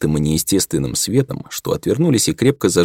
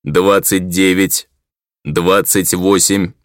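very slow, even robotic countdown; sharp metallic voice; much slower than usual. Acted. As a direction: count down like a machine. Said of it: "резкий металлический голос".

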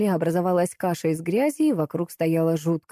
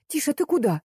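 higher, alarmed call to the cat; 8 semitones higher than usual. A narrator's reading. Galina calls after the cat, alarmed. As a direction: stop the cat with a startled cry.

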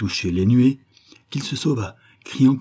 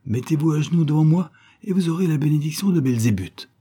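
high, sing-song swamp monk; gurgling swamp creature; 5 semitones higher than usual. Acted. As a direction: croon it like a marsh demon. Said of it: "Il se mit à chanter dans sa voix de marais".

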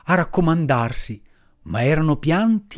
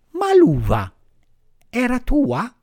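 high, slow, tender firefly voice; pitying firefly; 9 semitones higher than usual. Acted. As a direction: sigh it out with pity, much higher and slow. Firefly questions Pinocchio.

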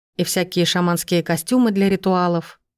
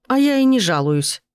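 scoffing; 6 semitones higher than usual. A narrator's reading. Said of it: "фыркнула мать".

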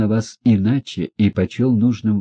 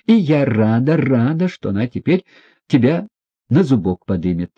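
higher, spiteful relish; gloating; 5 semitones higher, 3 dB louder than usual. A narrator's reading. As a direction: rub it in with glee. Лизавета злорадно язвит о князе. (злорадно, с насмешкой)

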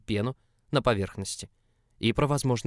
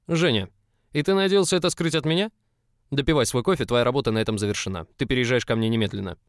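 furious; 2 semitones higher, 7 dB louder than usual. Acted. Август furious, orders move.

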